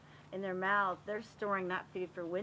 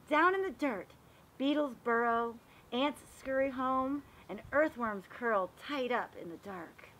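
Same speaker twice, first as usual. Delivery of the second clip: storybook narration. Acted. Teacher reading a garden book aloud to the class, storybook voice. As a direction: read it like a picture book for little kids. Reads picture book to children.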